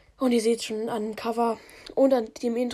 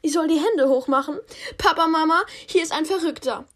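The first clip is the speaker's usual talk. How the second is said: high princess voice; 5 semitones higher than usual. Acted. Princess calls parents.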